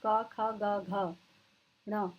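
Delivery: क, ख, ग, घ, ण recited one by one from the throat; teacher demonstrating velar क, ख, ग, घ; throat consonants demo. Shown as a demonstration. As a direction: sound out क, ख, ग, घ as separate velar syllables. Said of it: "कंठ यानी कंठ से बोले जाते हैं".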